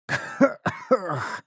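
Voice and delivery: weak, strained groan and cough. Acted. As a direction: croak it out in pain. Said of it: "Прокряхтел я".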